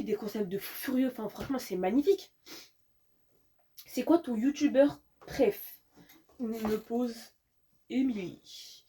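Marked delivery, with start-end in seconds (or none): 3.9-8.8 put-on slow, drawn-out Marseille accent; marseille french. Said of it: "Je prends un accent marseillais".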